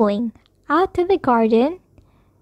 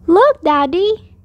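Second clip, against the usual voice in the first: high, louder call for attention; yelling; 4 semitones higher, 5 dB louder than usual. A narrator's reading. Child alerting Daddy to Bear, yelling. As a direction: call out slowly, high and loud. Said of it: "I yelled".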